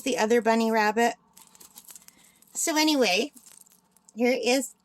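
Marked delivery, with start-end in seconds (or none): 2.5-3.3 talking through hiccups; hiccuping. Real, not acted. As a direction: hiccups breaking the words. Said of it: "Oh no, I've got the hiccups".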